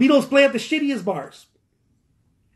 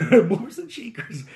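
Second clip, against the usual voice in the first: laughing; 4 semitones higher than usual. Real, not acted. Chuckles repeating his own phrase.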